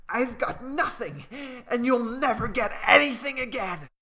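loud defiant answer. Acted. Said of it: "Malu answers in a loud voice".

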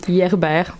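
foreign surname in a French accent. Real, not acted. Guest stuck on a difficult surname, French accent. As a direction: pronounce the name the French way, French accent. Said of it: "avec mon accent français".

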